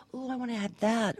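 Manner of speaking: mock covetous "oh"; imitating wowed customers. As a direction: play the customer who suddenly wants it. Imitating delighted warehouse customers.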